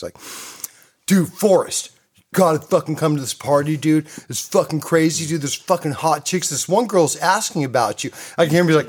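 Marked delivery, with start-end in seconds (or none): 1.1-8.1 lightly voiced excited surfer friend; a hint of a stoked buddy on the phone; imitating Danny. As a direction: hype him up a bit higher. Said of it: "he goes like this".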